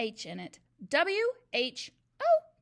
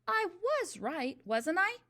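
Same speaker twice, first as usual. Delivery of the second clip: nervous murmur; 8 semitones higher, 4 dB louder, slower than usual. A narrator's reading. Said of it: "he murmured nervously".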